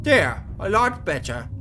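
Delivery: creepy villain, stretching the words out; sadistic captor, pleased. Acted. Captor admiring his mutilated victim, creepy satisfaction. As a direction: finish with slow, self-admiring relish.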